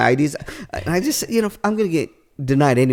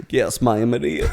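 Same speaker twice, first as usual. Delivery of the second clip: put-on Southern accent; 5 semitones lower than usual. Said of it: "is that really your accent?".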